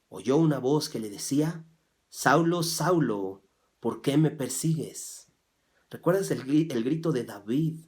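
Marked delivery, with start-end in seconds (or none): 2.1-5.3 calling voice. Acted. Voice from heaven calling Saul.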